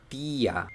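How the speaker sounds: "tía" as German Tier, long ee then a; pronunciación alemana. Shown as a demonstration. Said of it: "la palabra animal". ("tía", Tier en alemán)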